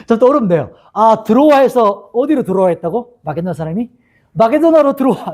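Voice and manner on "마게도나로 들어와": playful high-pitched movie-line parody; 황정민. Retold or imitated. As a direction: call out like the film catchphrase. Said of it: "이렇게 한 거예요". (영화 대사처럼 높게 외치는 패러디)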